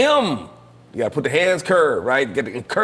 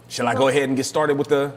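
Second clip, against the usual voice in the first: nasal voice. Real, not acted. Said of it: "You sound a little nasally".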